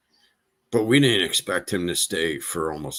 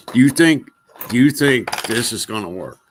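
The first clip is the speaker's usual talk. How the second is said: incredulous; 3 semitones higher, 6 dB louder than usual. Retold or imitated. Mocking his cream remedy.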